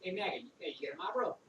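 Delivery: imitated Boston accent, calling someone over. Range buddy from Boston pesters Maggot, in a Boston accent. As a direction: hail him in a Boston accent. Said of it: "you know, with the Boston accent".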